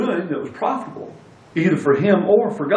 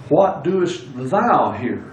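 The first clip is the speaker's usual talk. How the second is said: slow, with "thou" stretched and leaned on; stress on THOU; much slower than usual. Shown as a demonstration. Preacher trying another emphasis on Elijah's question, stress on "thou". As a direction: make "thou" the weighty word of the question. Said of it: "place the emphasis on the other word".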